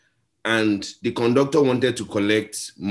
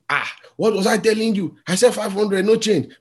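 higher, told-you-so mock call; conductor gloating; 7 semitones higher than usual. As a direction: crow that he was right all along.

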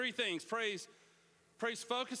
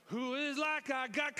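a fired-up neighbor in the pew calling out praise; enthusiastic shouted praise; 6 semitones higher than usual. Retold or imitated. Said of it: "the dude next to you is like".

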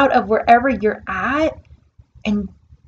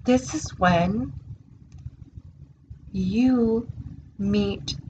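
reverent quote; 3 dB quieter than usual. Retold or imitated. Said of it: "And he said to me".

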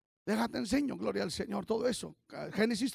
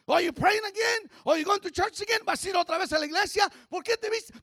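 mocking critic; 5 semitones higher than usual. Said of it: "Some people get criticized".

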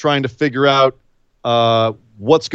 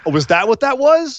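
amused; 12 semitones higher than usual. Real, not acted. Amused at the failed noise.

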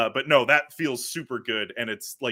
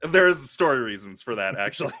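laughing. Real, not acted. Laughs while hinting at spoiler.

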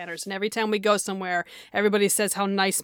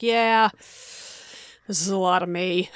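slow rueful admission; 2 semitones lower, much slower than usual. Retold or imitated. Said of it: "I'm just like".

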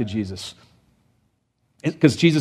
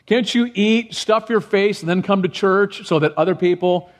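higher, indignant rebuke; pitched-up scolding of greedy churchgoers; scolding Paul; 5 semitones higher than usual. Retold or imitated. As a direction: scold them like a fed-up apostle. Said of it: "is the idea".

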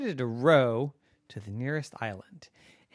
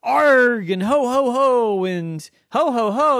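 put-on pirate boy insisting; 9 semitones higher, 6 dB louder than usual. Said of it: "And Brandon said".

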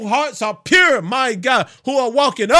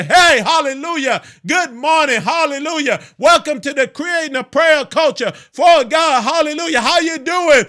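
bright, higher, louder church welcome; cheery greeting; 4 semitones higher, 4 dB louder than usual. Retold or imitated. Preacher welcoming the congregation, cheery greeting. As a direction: greet the saints with a lift. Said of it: "to lift up my voice and say".

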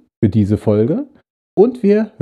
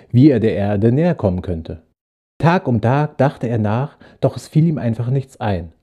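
calm storyteller voice reading a Christmas tale; story narration. A narrator's reading. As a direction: tell it gently to listeners leaning back. Reads story aloud. (ruhige Erzählstimme einer Weihnachtsgeschichte)

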